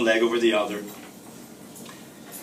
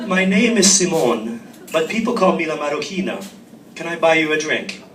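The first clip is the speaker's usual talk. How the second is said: Italian man's voice; 3 semitones higher, 5 dB louder than usual. Acted. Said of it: "in a perfect Italian man's voice".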